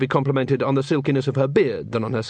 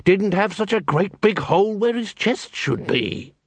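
cold, flat voice; 7 semitones higher, slower than usual. A narrator's reading. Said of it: "still talking in a cold, flat voice".

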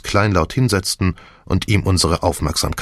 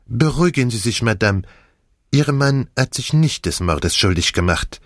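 put-on lightly French-accented detective; reassure, then reveal, lightly accented; Poirot; 3 semitones higher than usual. Detective calms Madame about her husband, light French accent.

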